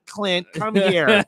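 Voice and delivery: slow, laughing, lightly voiced mother; half-laughing redo of the mom call; lighter mom imitation. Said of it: "Oh my God".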